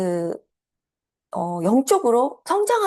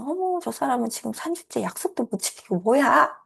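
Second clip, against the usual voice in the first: judging coach; 3 semitones higher than usual. Retold or imitated. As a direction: sneer at the lazy client. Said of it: "속으로는". (속으로 비꼬는 코치 흉내)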